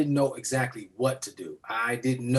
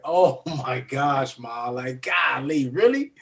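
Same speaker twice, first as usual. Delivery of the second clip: slow, laughing amazement; laughing disbelief. Retold or imitated. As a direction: laugh through the surprise. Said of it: "I'm like".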